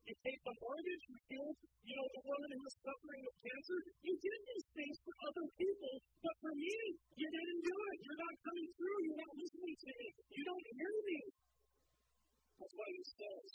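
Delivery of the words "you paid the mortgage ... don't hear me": louder, aggrieved accusing prayer; complaining to God. Retold or imitated. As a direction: press God with mild frustration. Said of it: "you start asking God".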